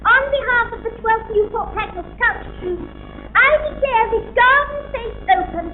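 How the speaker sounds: grand, measured opening address; ceremonial speech. Acted. Celebrity opening a scout garden fete, grand formal speech. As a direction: declare it open like visiting royalty.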